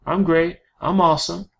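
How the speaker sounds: lightly mocked, chirpy stock answers; stock replies. Coach mocking how people answer how are you, chirpy. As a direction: rattle off the lazy small-talk replies. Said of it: "you can't just say things like".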